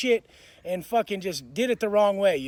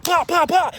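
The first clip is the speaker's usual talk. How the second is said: loud, high pop-pop-pop; imitated punches; 8 semitones higher, 7 dB louder than usual. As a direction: punch out each hit as a sound effect. Imitates his punches landing.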